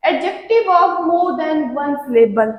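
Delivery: slow, careful rule heading; slow rule title. Shown as a demonstration. Teacher reading the second rule title, slow and careful. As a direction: stretch out the title. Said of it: "rule title read slowly".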